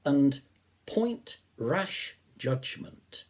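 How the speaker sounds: measured, expressive recital of a Romantic poem; poem reading. Acted. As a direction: read it like a reflective nature poem, savouring each line. Reads Wordsworth poem aloud.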